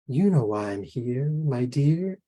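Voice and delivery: sweetly menacing lilt; dark and sweet. Acted. Giant bird answering the frightened woman, dark and sweet. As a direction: purr it with sugary threat. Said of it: "dark and sweet".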